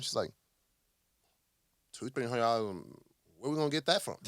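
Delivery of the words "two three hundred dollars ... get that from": incredulous, rising to a shout; shocked disbelief. Retold or imitated. Tiff shocked at the weekly ad budget, incredulous and rising to a shout. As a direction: balk at the number.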